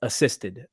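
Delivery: "assisted" set apart by a pause; "assisted" said alone for emphasis, with a falling close; stress on assisted. Real, not acted. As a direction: land on "assisted" as its own word, falling. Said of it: "I do emphasize the word".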